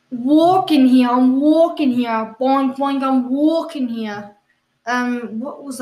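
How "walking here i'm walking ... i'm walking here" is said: loud, stretched-out bad celebrity impression; Christopher Walken. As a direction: drag out the words slowly and call them out. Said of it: "I will do an impression of Christopher Walken".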